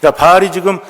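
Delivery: lazy, sneering jeers tossed off while lounging; mocking taunt. Elijah lounging with popcorn, taunting Baal's prophets: mild mockery. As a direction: egg them on like a bored spectator with popcorn. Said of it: "조롱하는 거지".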